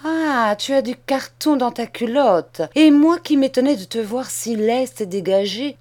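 outraged scolding. Acted. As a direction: rage at being tricked. Macmiche discovers the trick.

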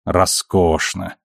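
медленно, с горечью; горькое, протяжное «роскошно»; горько. A narrator's reading. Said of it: "горько отозвалась женщина". (с горечью)

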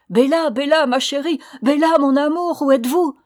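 high, loud searching calls; crying aloud. A narrator's reading. Prince searching room to room for Bella, crying aloud. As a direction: call out urgently through a big house. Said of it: "criant à voix haute".

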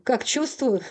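cracked, unhinged laughter, half crying; hysterical laughing. Acted. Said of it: "истерически расхохотался".

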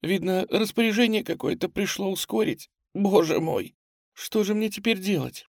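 high, tearful helpless lament; sobbing. A narrator's reading. Girl left behind by everyone, sobbing. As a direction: plead helplessly through tears. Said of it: "всхлипывала она".

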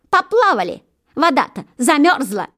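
high, mocking jackdaw cry; lightly voiced cheeky bird; jackdaw's taunt. A narrator's reading. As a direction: tease the geese from above. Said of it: "крикнула".

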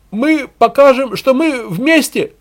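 slow, high, loud slogan; drawn-out demagogue's call; rallying cry. A narrator's reading. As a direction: drag the words out to rouse a crowd. Propagandist rallying a crowd.

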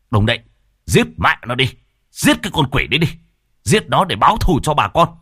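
mob shouting. Acted. Villagers chant together to kill the demon, shouting. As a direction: roar for revenge with the crowd.

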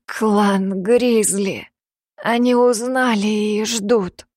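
slow, laboured gasping words; heavy breathing. Acted. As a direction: breathe heavily between words. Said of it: "Тяжело дыша". (тяжело дыша)

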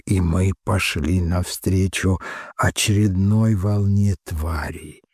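ordinary delivery, nothing marked

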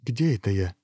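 mild gasp of bewilderment; understated shock; gasping prince. Acted. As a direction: ask in startled confusion. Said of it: "ахнул принц".

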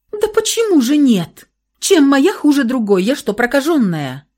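high, loud indignant cries; desperate protest. A narrator's reading. Woman protests to dying lover, desperately indignant. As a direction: demand an answer in despair.

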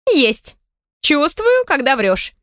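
поддразнивая, хихикая; подразни, посмеиваясь; с хихиканьем. Acted. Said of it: "хихикнула подруга". (подруга хихикает, уличая Софию во лжи)

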